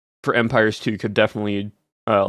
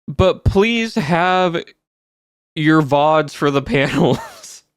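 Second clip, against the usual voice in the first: slow, higher, stretched-out please; drawn-out plea; 4 semitones higher, much slower than usual. Real, not acted. Streamer begging Twitch to keep the panel vods, slow pleading. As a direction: beg for it, dragging each word out.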